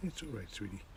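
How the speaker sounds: soft soothing. Real, not acted.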